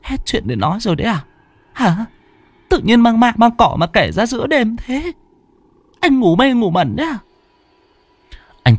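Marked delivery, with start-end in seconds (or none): 0.0-7.2 much higher, sharp scolding wife; scolding husband. Acted. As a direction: tell him off for ghost talk at night. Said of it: "trợn mắt mắng chồng".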